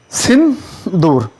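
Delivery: सिंदूर with the ऊ stretched very slowly; drawn-out long vowel. Shown as a demonstration. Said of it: "बड़े ऊ की मात्रा". (सिंदूर में लंबा ऊ खींचकर)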